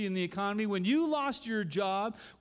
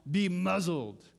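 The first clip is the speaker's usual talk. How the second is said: forceful command; 4 dB louder, slower than usual. Shown as a demonstration. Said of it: "It is not".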